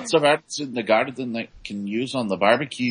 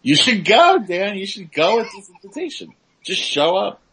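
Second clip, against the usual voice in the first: excited urging; 8 semitones higher, 4 dB louder than usual. Real, not acted. Urging friend to attend.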